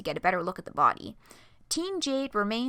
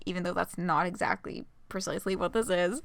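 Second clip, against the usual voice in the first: ordinary delivery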